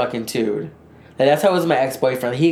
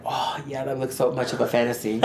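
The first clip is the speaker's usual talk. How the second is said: dreamy fantasy sigh; 3 semitones lower, 7 dB quieter than usual. Retold or imitated.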